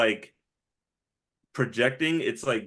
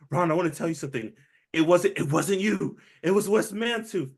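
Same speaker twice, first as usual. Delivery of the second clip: mock rising anger; 4 semitones higher, 4 dB louder than usual. Veronica quote, building.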